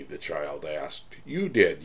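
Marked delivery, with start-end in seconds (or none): 1.2-1.8 higher, amazed reply; mildly astonished; in wonderment. A narrator's reading. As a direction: answer with puzzled wonder. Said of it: "Johann replied in wonderment".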